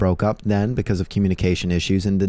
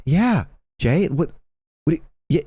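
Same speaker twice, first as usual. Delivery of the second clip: incredulous; 8 semitones higher than usual. Retold or imitated. His own incredulous reply.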